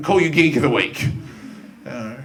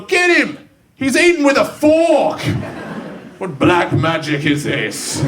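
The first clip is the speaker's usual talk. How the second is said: mock bully yell; 2 semitones higher, slower than usual. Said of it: "They're a bit more".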